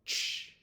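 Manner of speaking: "Ch" as one unvoiced, hissed burst; isolated letter sound. Shown as a demonstration. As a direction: release "Ch" sharply with no vowel after it. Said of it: "come together to make this sound".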